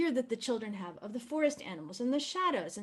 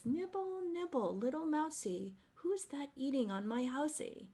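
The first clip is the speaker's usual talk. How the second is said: scary witch; 4 semitones higher, 4 dB quieter than usual. Retold or imitated. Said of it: "she sounds kind of scary".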